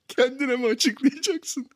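high, drawn-out rhetorical question; mock incredulous question. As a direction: stretch it out high, in comic exasperation. Mock helpless questions after exposure.

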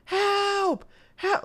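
high mock call for help from far off; imitated cry for help. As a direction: call out like a distant stranger in trouble. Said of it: "you can hear somebody cry for help".

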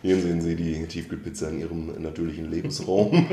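getragen wie ein Naturfilm-Erzähler; erklär es wie eine leichte Tierdoku; Tierdoku-Sprecher. Pretend. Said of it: "so eine Doku ankündigen". (Sprecher einer Tierdokumentation)

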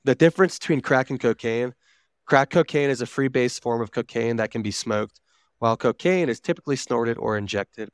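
even, measured explainer narration; informational read-aloud. Real, not acted. Reading drug facts to co-hosts, informational read-aloud. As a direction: read it out like a factual article.

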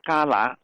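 旮旯 as "gālá", for jiaoluo; Beijing dialect pronunciation. Shown as a demonstration. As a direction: demonstrate Beijing 旮旯 with a hard g. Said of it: "北京方言呢读作".

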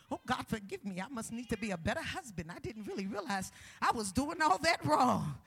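contrite husband praying. Acted. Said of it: "ask God to forgive you".

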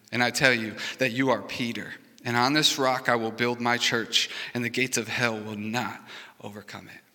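proclaiming the verses; scripture reading. Acted. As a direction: read the verses out to the congregation, firm and clear. Reads Matthew sixteen aloud.

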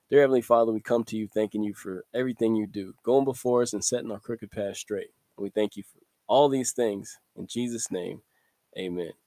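earnest opening prayer, gently spoken. Acted. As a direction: pray it sincerely, like addressing God.

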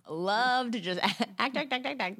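mock over-eagerness. Mocking over-eager actors.

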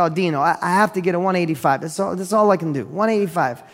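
lightly imitated Italian accent; a hint of an Italian accent in the retelling. Widow tells the buyer her price, light Italian accent. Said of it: "in an Italian accent".

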